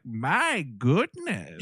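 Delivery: slow, drawn-out mock gasp; old couple gasp. Old couple watching the wrong-way train, slow mock gasp. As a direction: stretch it out like a startled old lady. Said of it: "and then they're like".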